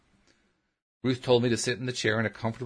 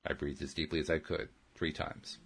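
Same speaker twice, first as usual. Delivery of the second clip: voiceless, much softer "three times"; whispered; 4 semitones lower, 7 dB quieter than usual. A narrator's reading. Breathing deeply, narrated.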